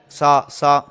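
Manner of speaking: سا and سا said alike, the wrong way; imitating a mistake. Teacher imitates learners who say the two letters the same. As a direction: mimic students mixing ثا and سین. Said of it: "اس طرح کی غلطیاں کرتے ہیں".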